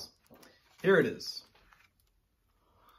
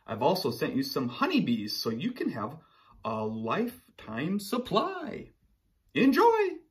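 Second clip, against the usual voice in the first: letter voice of sun bear; 3 semitones higher, 3 dB louder than usual. Acted. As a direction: read it cheerfully as sun bear. Reads sun bear's letter.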